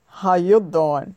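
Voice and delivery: slow, lightly voiced Joey line; Joey impression. Host quoting Joey's pickup line, lightly imitated. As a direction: drawl it out like Joey from Friends. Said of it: "I say it like Joey".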